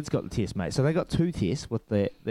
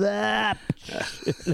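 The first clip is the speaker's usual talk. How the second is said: mock sneeze; 10 semitones higher than usual. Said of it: "standing there going".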